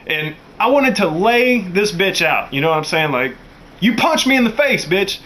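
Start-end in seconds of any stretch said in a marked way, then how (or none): 3.8-5.2 much higher outraged yell; high enraged accusation; furious. Retold or imitated. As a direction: rage at being hit. Furious after being punched.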